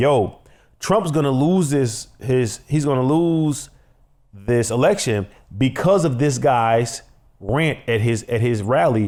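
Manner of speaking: ordinary talk, nothing marked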